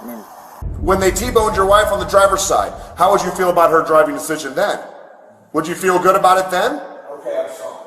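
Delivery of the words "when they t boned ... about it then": angry outburst. Real, not acted. Drunk driver berates officer.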